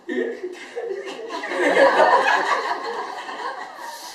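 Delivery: high, breaking mock sob; imitated weeping. Father at the first-birthday party takes the mic, mock crying. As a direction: burst into a put-on crying wail. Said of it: "아니, 그냥 울어".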